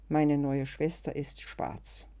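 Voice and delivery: slow, weighted, falling from Meine; heavy confession. Acted. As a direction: say Meine neue Schwester ist schwarz slowly, heavily. Schweres Geständnis nach Weinen. (langsam und bedrückt gestanden)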